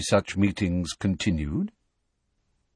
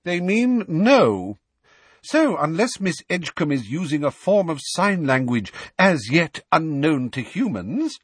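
cold; 6 semitones higher, 3 dB louder than usual. A narrator's reading.

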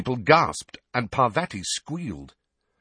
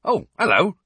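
smiling; 10 semitones higher, 6 dB louder than usual. A narrator's reading. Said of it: "Hagrid said, smiling".

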